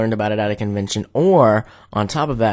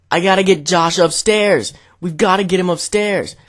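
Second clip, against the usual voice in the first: raised, insistent sleep-talker; imitated urgency; 5 semitones higher than usual. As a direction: press it on a friend, mock urgent. Imitating frantic sleep-talking friend.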